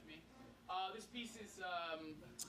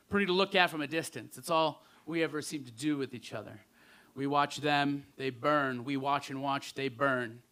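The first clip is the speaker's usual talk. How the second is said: spoken-word poem; 11 dB louder than usual. Acted. Poet muses to the audience on two friends who burn, spoken-word recital. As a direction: recite it in deliberate phrases.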